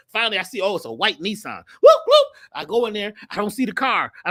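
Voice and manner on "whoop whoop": high, loud car-alarm whoops; imitated car alarm. Storyteller imitates a rental car answering the remote, high and loud. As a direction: mimic a car chirping back. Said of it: "trying to see which car's going".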